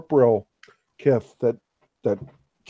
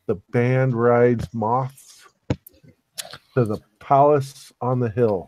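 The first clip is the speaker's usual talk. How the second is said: slow, measured reading aloud; verse reading; slower than usual. Acted. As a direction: read it out slowly, line by line. Reads out a verse slowly.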